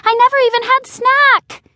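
high, loud wailing complaint; screaming complaint. Acted. Still locked in, wails a complaint to family downstairs. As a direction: wail the grievance out. Trapped dog keeps screaming.

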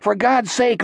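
high-pitched exasperated plea; strained, desperate urging; urgent hiss. A narrator's reading. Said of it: "Jack hissed".

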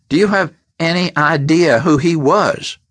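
a boss rattled and furious; horrified anger. A narrator's reading. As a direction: demand whether they know. Tree horrified at them.

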